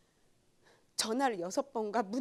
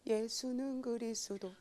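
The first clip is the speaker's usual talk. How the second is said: slow, listless recital; mock lifeless creed; spiritless recital; 4 dB quieter, slower than usual. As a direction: drag the words out without heart. Mumbles creed without spirit.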